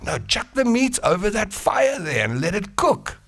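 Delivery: high, matter-of-fact instruction; caveman explaining. Acted. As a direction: explain it simply. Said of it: "that caveman said".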